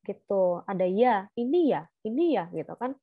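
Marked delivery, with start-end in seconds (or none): 1.4-2.5 questioning tune. Shown as a demonstration. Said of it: "Ada nadanya nih, beda".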